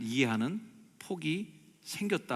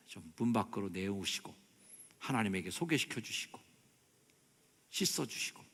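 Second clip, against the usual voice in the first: ordinary delivery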